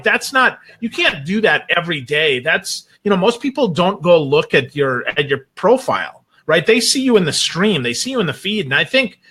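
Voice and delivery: usual speaking voice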